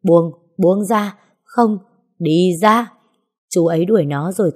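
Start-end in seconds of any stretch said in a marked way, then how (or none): 0.0-2.9 pained pushing away. Acted. Man in withdrawal shoving the woman away, strained and angry. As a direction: force the words out through pain.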